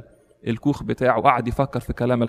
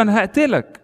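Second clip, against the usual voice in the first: higher, yelled أنا هقتلك; shouting threat; 7 semitones higher than usual. Retold or imitated. Thief yelling at the hermit, raised and high. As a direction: bark out أنا هقتلك as a raised mock yell. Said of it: "قعد يزعق ويقول له".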